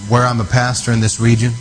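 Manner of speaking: fervent prayer. Real, not acted. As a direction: pray it out with urgency and authority. Leads loud prayer over region.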